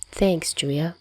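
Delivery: soft embarrassed mumble; quiet mumble. Acted. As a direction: mumble it under your breath. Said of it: "Dazai quietly mumbles".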